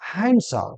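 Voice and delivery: হ্যান্ডসাম with silent d, "han-sam"; corrected handsome. Shown as a demonstration. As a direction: say হ্যান্ডসাম as "HAN-sum", dropping the d. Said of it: "সঠিক উচ্চারণ কি হবে?". (হ্যান্ডসাম-এর সঠিক উচ্চারণ, ড নীরব)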